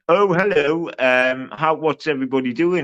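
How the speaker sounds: lightly mocking, overly friendly greeting voice; mocking imitation. Mocking a rival's timid friendly entrance. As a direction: parody him as a meek nice guy. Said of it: "you just went".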